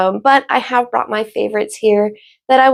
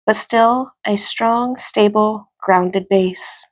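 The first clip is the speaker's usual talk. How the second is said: calm, measured meditation guidance with long pauses; guided meditation. Acted. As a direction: guide them gently into stillness, leaving space between phrases.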